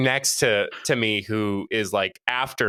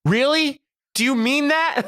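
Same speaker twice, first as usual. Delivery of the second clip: surprised gratitude; 4 dB louder than usual. Retold or imitated. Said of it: "And she goes".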